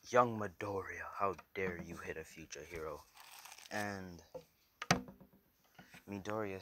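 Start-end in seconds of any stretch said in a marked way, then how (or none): 0.1-3.0 mock yell, loudest on the opening name; half-projected indignant hero scolding; All Might yelling. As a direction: call out a stern reprimand, then ease off. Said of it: "All Might yells out".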